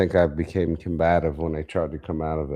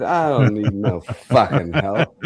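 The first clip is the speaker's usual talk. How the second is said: slow, slurred refusal with a laugh; woozy, laughing, stubborn no; groggy defiance; 2 semitones higher, 5 dB louder, slower than usual. Retold or imitated. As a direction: play it drunk on anesthesia and stubborn. Drugged patient refuses help.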